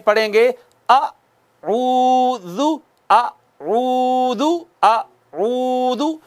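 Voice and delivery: अऊदु drawn out slowly, lips rounded on the u; slow tajweed chant of अऊदु with rounded lips; Quranic recitation. Shown as a demonstration. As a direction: recite अऊदु slowly, stretching the first vowel. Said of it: "तो आप कहें".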